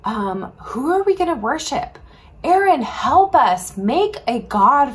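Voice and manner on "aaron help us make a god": louder, slow, begging cry; pleading crowd. Acted. Frightened people beg Aaron for a god, pleading.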